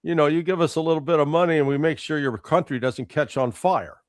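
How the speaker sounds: smooth-talking gangster shakedown; mafia protection racket. Retold or imitated. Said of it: "acting like the mafia with a protection racket".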